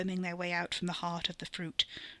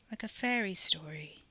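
whispering. Acted. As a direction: breathe it under your breath. Katie hushed in awe.

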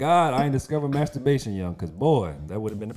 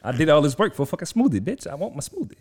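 put-on whining kid; 4 semitones higher, 4 dB louder than usual. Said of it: "I'm like".

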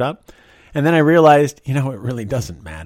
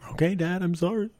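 put-on higher, softer little-girl "sorry"; meek kid apology; 10 semitones higher, 6 dB quieter than usual. A scolded daughter apologizing to her dad, higher and softer. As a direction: shrink like a scolded child.

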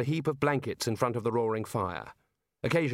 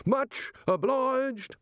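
high, slow, raised call; hearty raised thanks to the window; 13 semitones higher, much slower than usual. A narrator's reading. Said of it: "raising his voice".

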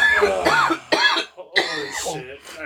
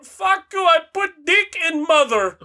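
very high mock South Asian outburst; pissed-off scammer accent; 11 semitones higher than usual. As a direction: hurl insults in a put-on South Asian accent. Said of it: "sometimes they get pissed".

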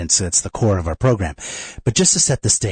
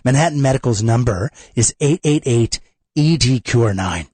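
upbeat radio ad read. Acted. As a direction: sell it like a radio spot. Host reads sponsor ad.

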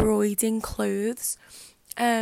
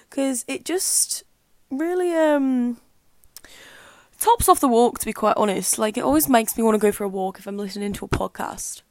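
Australian accent; 4 dB louder than usual. Real, not acted. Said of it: "Don't know what's with the Australian accent".

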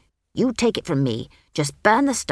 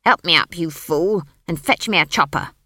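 loud, cross order; forceful witch who must be obeyed; commanding; 6 dB louder than usual. A narrator's reading. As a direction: order him about, brooking no refusal. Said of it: "The tone of her voice suggested".

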